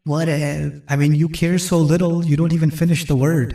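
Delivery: put-on slow, dismissive teen drawl; can't be bothered to finish the word; bored teenager. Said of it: "ٹین ایجر کہتے ہیں". (بیزار نوجوان کا لاپروا لہجہ)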